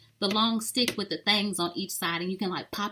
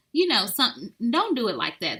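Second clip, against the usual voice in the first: ordinary talk, nothing marked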